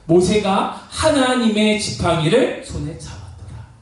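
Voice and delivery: 높은 음으로 천천히 구절을 되새기기; "하나님의 지팡이를"에 힘주어 느리게 읽기. Acted. 같은 구절을 거듭 강조해 낭독. (핵심 구절을 힘주어 천천히 낭독)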